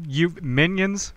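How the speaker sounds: high, slow disbelief; incredulous. Retold or imitated. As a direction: draw it out as if you can't believe it. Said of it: "I'd have been like".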